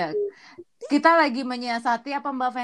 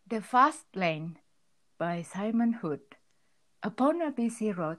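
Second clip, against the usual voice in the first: stifled giggles; 4 semitones lower, 5 dB quieter, slower than usual. Real, not acted. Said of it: "gue udah nggak tahan ketawa".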